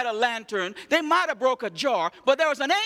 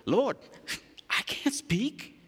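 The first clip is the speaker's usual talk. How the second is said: timid Moses; 5 dB quieter, slower than usual. Acted. Moses pleading he can't speak.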